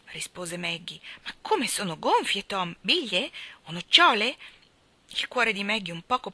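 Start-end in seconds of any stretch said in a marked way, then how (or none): 1.2-4.4 put-on higher, eager young girl's guess; lightly voiced curious girl, pressing; eager little girl. A narrator's reading.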